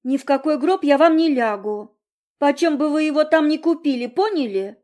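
put-on girl snapping at parents over the coffin; snapping back. A narrator's reading. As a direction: snap at them with stress on вам. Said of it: "Огрызнулась девочка".

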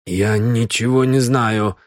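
"Я ничего не знаю" with chattering teeth. Acted. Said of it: "стуча зубами".

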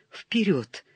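unvoiced whisper to himself. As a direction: whisper it so no one hears. Ivan quietly encourages himself at night.

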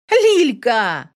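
bright loud call of her sister's name. A narrator's reading. Younger sister greets Lilka with a glad call.

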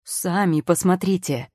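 slow, pressing insistence; insisting. A narrator's reading. Assistant in grey uniform insisting to the witch. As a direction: push her to look. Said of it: "настаивал мужчина".

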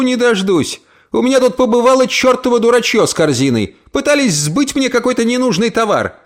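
put-on high, eager old woman; chattering old aunt. Aunt greets Emily home, high and eager. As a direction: gush at the niece.

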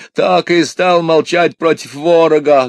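high-pitched aggrieved peasant woman; indignant complaint. A narrator's reading. Wife objects to the wanderer's advice, high indignant complaint. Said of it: "жаловаться страннику на свою долю горемышную".

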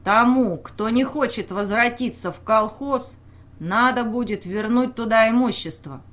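crisp, loud, barely held anger; open anger. Acted. Official threatening villagers who refuse, in crisp open anger. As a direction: spit out each word at them. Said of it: "Чётко, с нескрываемой злостью произнёс".

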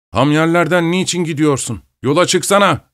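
a high, angry shout at the coachman. Acted. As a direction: snap at him, high and sharp. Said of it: "öfkeyle, diye bağırdı". (arabacıya yüksek perdeden öfkeli bağırış)

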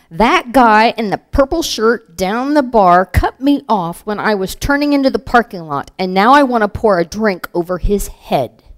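irritated rant. Acted. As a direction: vent about a rude driver, half in earnest. Neighbor Nancy's acted bar rant.

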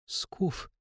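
breathy conspiratorial whisper; a quick secret whisper to her friend. A narrator's reading. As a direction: whisper it so the count can't hear. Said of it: "прошептала Чертанова".

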